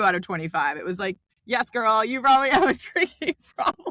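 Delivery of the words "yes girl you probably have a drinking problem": sassy quiz voice. Retold or imitated.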